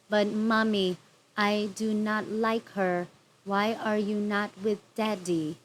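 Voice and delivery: lightly voiced whiny little girl, stiff and wooden; mock a child actor reading lines badly; imitating bad child actress. Vlogger mimicking the daughter's awful acting, mild whine. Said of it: "She literally would talk just like this".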